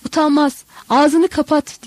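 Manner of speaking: lunge at him with the words; angry shout. A narrator's reading. Paul attacking Jesus, shouting him down in anger. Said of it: "diye bağırdı üstüne saldırarak".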